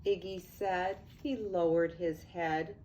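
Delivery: lively storybook read-aloud; sing-song picture book narration; reading to children. A narrator's reading. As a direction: read it like bedtime rhyme to kids.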